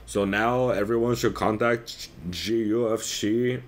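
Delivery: mock Brazilian-accented English. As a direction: quote her in a put-on Brazilian accent. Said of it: "I'm doing a Brazilian accent".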